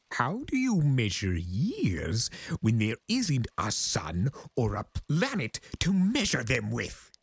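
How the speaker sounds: high, theatrical chaos spirit boasting of his age; grandiose Discord voice. Acted. Discord boasting to the Pegasus, high and grandiose.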